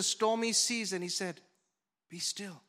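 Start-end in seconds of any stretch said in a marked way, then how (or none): 2.1-2.6 softer, gentle be still; calm the sea without raising the voice; calm quiet rebuke. Acted. Jesus quietly telling the stormy sea to be still. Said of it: "His rebuke was not a loud".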